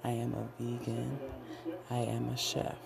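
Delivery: measured self-affirmation chant; affirmation recital. Acted. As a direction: recite each affirmation like a vow. Recites I am mantras.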